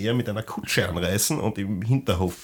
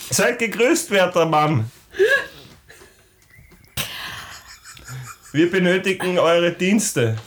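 high, slow courtly address; lightly voiced polite adventurer; formal in-character greeting; 8 semitones higher, slower than usual. Player greets rickshaw driver in character.

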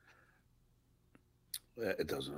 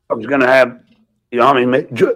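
yawning; 3 semitones lower, 5 dB louder, much faster than usual. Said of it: "yawned in the middle of saying his name".

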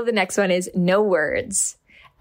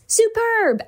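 "Superb!" read much higher, like a shout of praise; reading all caps. Acted. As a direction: burst out with the all-caps word. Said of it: "The next one reads in all caps".

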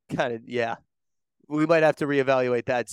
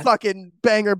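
excited; 5 semitones higher, 5 dB louder than usual. Real, not acted. Excited hype.

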